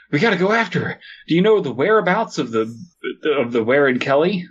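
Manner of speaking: high, excitable game-character voice; hammed-up rallying of the team; Ellis. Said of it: "this is Ellis from Left four Dead two".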